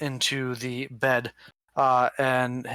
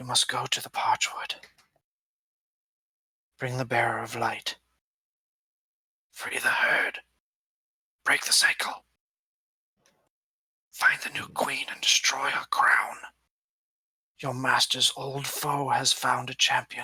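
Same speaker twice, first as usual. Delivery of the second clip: faint, weak, dying last-breath whisper. Narrator voicing dying Ject as a player leans in, Ject's weak dying whisper. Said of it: "muster the strength to whisper something to you".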